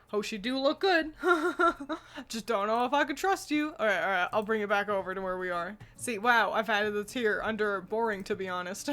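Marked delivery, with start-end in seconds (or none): 0.1-3.7 giggling through the words; laughing. Pretend. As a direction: laugh while saying it. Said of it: "Like, like".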